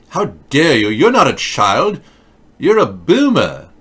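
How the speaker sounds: hammed-up outrage at a boomer; mock furious teen scolding an adult; mock angry Greta. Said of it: "Everything she says is angry".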